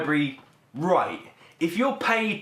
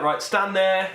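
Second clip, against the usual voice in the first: film crew; 6 semitones higher, slower than usual. Retold or imitated. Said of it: "and they're just like".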